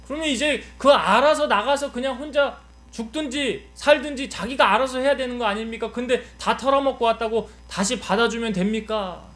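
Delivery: 높은 음으로 몰아붙이는 항변; 억울한 맏아들처럼 따져 묻기; 화난 큰아들. Acted. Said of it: "비교에서 화가 난 거예요". (분한 큰아들의 항의를 연기)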